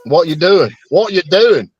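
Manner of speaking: imitating the Australian "What you doing"; mimicking an Australian accent; copying Aussie. Shown as a demonstration. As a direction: try out the Aussie phrasing. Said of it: "I'm getting it".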